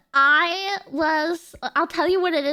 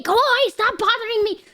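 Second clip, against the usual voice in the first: raised-pitch mock irritation; annoyed sibling; 5 semitones higher, 3 dB louder than usual. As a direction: shoo off a pestering kid. Acting out annoyed brother.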